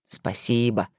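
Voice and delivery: heartfelt thanks. A narrator's reading. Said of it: "проникновенно сказал Максим".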